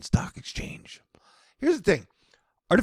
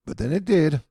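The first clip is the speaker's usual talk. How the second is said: normal talking voice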